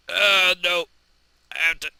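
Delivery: high, loud yelps of panic; mock panic. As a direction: cry out in hammed-up alarm. Crash continues.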